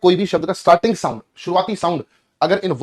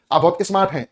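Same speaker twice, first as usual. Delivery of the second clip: UP-style स्मार्ट said "is-mart"; UP pronunciation. Retold or imitated. Teacher mimics a UP compliment, UP pronunciation. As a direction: put an i before स्मार्ट, as in UP. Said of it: "ई वाला sound produce कर देते हैं".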